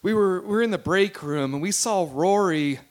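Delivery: quiet, stammering start; a touch of nervous reluctance; mildly nervous. Acted. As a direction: hesitate and stumble into the confession. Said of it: "just kind of nervous".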